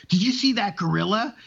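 breathless, high and panting; out of breath. Acted. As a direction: gasp it out of breath. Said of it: "he's all out of breath".

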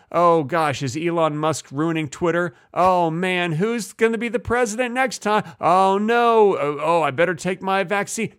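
mock worried. Mocking modern people's worries.

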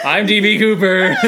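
talking doll. Pretend. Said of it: "I sound like a Barbie doll that got strangled with a voice box inside".

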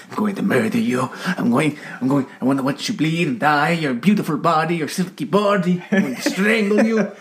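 mock sweet-talking murder threat; sweet nothings. Caller threatening a victim in a giallo, mock sweet nothings. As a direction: threaten like whispering sweet nothings, climbing in pitch. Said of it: "speak sweet nothings into their ears".

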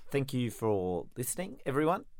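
hint of fake Australian accent; badly faked Aussie sign-off. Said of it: "Are you doing a fake Australian accent?".

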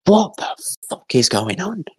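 high-pitched mock bewilderment; retold confusion. Son watching the family fight a fire, high bewildered cry. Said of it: "in just confused".

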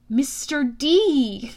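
slow, careful greeting; drawn-out, controlled politeness; trying to stay calm. Acted. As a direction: address an angry god carefully. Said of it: "I tried to keep my voice calm".

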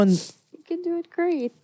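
a hint of a grand film star line, pitched high; Vilma Santos. Echoing her friend's line as a teasing movie-star quote. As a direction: lightly mimic a dramatic actress. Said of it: "very Vilma Santos".

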